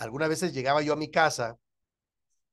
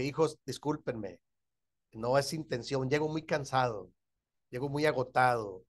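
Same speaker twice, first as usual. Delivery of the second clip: gentle apology; 4 semitones lower, 6 dB quieter than usual. Retold or imitated. Pastor retelling his apology to his children, soft and tender. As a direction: apologize softly like a tired father.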